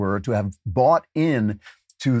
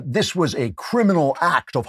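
pompous; 5 semitones higher than usual. Retold or imitated. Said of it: "he's such a pompous ass".

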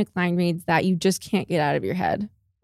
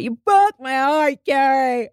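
Aiden line read; 5 semitones higher, slower than usual. Retold or imitated.

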